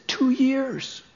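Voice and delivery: whisper. Retold or imitated. Man answers shyly.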